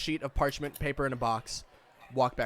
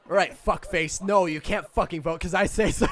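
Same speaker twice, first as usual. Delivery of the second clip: rude official; 4 semitones higher, 6 dB louder than usual. Acted.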